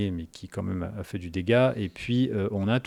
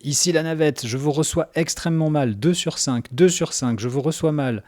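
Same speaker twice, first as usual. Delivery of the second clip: radio transmission; 4 semitones higher, 4 dB louder than usual. Acted. Player answers over the radio.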